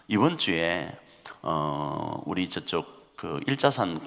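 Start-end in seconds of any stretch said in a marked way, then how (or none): none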